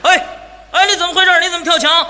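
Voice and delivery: 严厉盘问的警察; 像警察一样厉声质问; 警察喝问. Acted. 警察喝问跳墙者. (警察厉声喝问)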